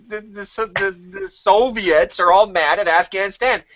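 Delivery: put-on high, excited child explaining; young son explaining to his dad, high and eager; kid voice. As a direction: rattle it off like a puzzled boy. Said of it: "I said".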